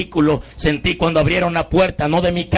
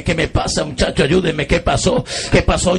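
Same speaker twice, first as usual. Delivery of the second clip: desperate plea; 4 semitones higher than usual. Retold or imitated. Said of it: "comencé a desesperarme".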